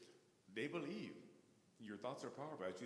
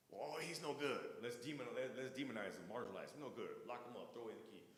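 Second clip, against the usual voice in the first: mocking society; 2 semitones higher, 3 dB louder than usual. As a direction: sneer like an official passing judgement. Mocking society's judgement of him.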